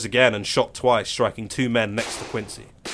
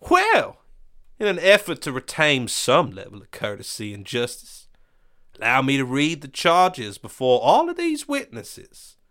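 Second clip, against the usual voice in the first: pompous villain voice; 3 semitones higher than usual. Acted. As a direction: lord it over the prisoner. Quincy reads the charges.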